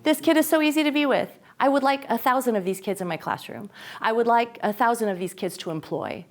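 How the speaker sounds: put-on a teacher delighted with a child; delighted gush. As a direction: gush over the easy kid. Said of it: "already you're like".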